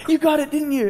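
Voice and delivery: high-pitched impression of mum; imitated excited mum. Mum greets her son at the bedroom door, imitated high. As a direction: lift it high as an eager mum. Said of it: "and she was like".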